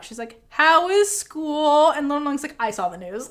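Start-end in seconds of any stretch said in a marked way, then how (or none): 0.5-1.9 stretched-out, very slow question; forced small talk. Retold or imitated. Big Nung breaking a silent car ride with forced small talk. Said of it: "tries to start with small talk". 2.6-3.3 low-key, softer shutdown; disengaged reply. Retold or imitated. Little Nung refusing Big Nung's small talk, disengaged. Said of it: "does not engage".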